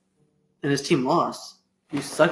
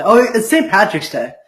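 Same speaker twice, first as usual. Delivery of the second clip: surprised realization; 6 semitones higher, 8 dB louder than usual. Real, not acted. Suddenly remembers the holiday.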